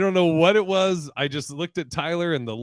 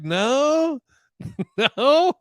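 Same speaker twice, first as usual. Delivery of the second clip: retold denial; 11 semitones higher, 4 dB louder than usual. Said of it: "And I was like".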